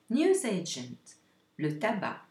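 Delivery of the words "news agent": News agent, slow, NEWS stressed; slow vocabulary word. Shown as a demonstration. Teacher reading the vocabulary list to learners, slowly. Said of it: "vocabulary list".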